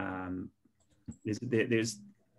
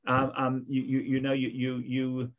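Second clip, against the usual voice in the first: mock whining.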